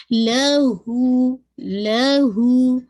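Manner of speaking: लहू with हू held for two counts; two-count madd. Shown as a demonstration. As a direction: stretch लहू gently. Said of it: "टू count पढ़ना है". (हू को दो हरकत)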